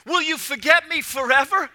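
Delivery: high, loud lament, slowing into the later lines; crying out. Acted. Preacher reading David's psalm as a loud, slow lament. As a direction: read the psalm as a cry of anguish. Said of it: "David is crying out".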